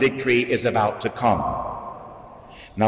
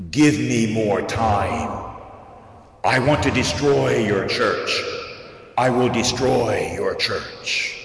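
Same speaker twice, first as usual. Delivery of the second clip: grovelly devil voice. Retold or imitated. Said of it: "terrible, grovelly voice".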